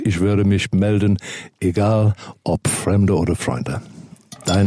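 right in your ear; seductive voicemail voice. Pretend. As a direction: close to the mic, trying to sound sexy. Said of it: "wenn ich versuche, sexy zu klingen".

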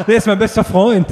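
high mock-defensive quote, laughing; giggly, high-pitched mock protest; teasing imitation. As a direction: mimic a friend's excuse in a high, laughing voice. Mockingly voices the friend's excuse.

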